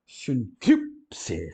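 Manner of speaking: "sincrípse" with the gamma kappa read as sun-kip-se; Greek word modelled. Shown as a demonstration. Teacher repeats "sincrípse" to students, careful and clear. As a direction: repeat "sincrípse" slowly, stressed on KRIP.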